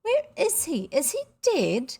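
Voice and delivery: high, urgent questions; alarmed questioning. A narrator's reading. People asking after the missing boy, alarmed. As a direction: ask it in rising alarm.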